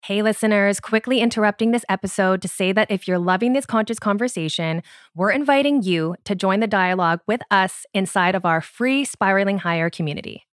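scripted host announcement; podcast promo read. Real, not acted. Host interrupting the episode to invite listeners, promo read.

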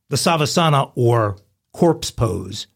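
corpse said very slowly, drawn out; slow explanatory gloss. Shown as a demonstration. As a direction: spell out the term slowly and clearly. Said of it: "as it's more commonly known".

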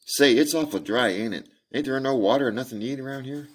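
put-on high childlike voice, pleading; a parched girl begging for water; thirsty little girl.

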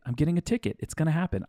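freaking out. Retold or imitated. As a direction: let the panic jump up in pitch. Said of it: "I'm freaking out".

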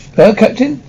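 eager, surprised question; astonished cry. A narrator's reading. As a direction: repeat it back in excited disbelief, pitch lifting. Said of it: "cried Dentes, his eyes sparkling".

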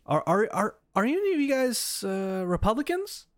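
mock British official. British official asks, mimicked.

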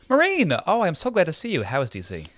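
high, breathy society mother; sexy Lily voice. Acted. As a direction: play Lily as sultry as you can. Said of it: "try and feel as sexy as possible".

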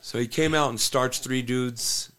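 laughing. Real, not acted. Telling a funny story about Ian.

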